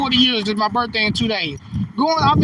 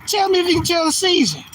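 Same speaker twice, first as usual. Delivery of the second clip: same challenge pushed higher; insistent repeat; 5 semitones higher than usual. Shown as a demonstration. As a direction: press the viewers harder on the repeat. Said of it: "Y'all tell me if you can tell the season".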